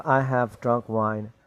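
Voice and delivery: very slow, every word spaced out; slow model sentence. Shown as a demonstration. Teacher slowly modelling the answer for students. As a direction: spell it out slowly for learners. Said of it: "So, yes, I have".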